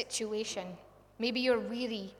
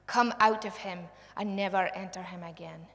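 stern rebuke; 5 dB louder than usual. Acted. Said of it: "he rebuked the impure spirit".

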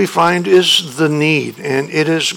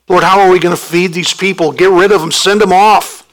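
exasperated disciples; 2 semitones higher, faster than usual. Pretend.

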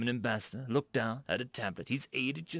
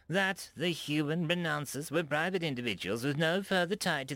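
menacing; 6 semitones higher than usual. A narrator's reading. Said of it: "slowly and with menace".

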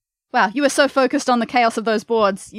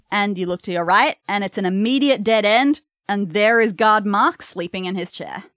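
game master narration. Acted.

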